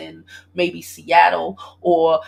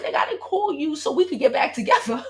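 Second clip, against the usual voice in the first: laughing protest; 7 semitones higher than usual. Retold or imitated. Telling viewers she didn't call to reunite, laughing.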